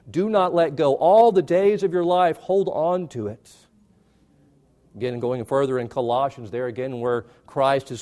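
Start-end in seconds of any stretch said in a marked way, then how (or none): 0.1-3.6 loud climactic plea. Acted.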